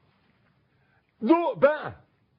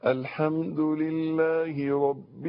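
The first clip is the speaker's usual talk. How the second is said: slow, drawn-out Fatiha recitation; much slower than usual. Shown as a demonstration. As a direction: recite it slowly, holding the long vowels. Shows reciting to God. (ترتيل بطيء ممدود)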